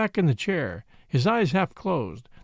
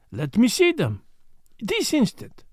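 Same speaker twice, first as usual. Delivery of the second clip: put-on higher-pitched, eager French-accented demand; excited foreign detective; 6 semitones higher than usual. A narrator's reading. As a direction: insist on it at once, pitch jumping up at the end. Poirot eagerly demands the manuscript.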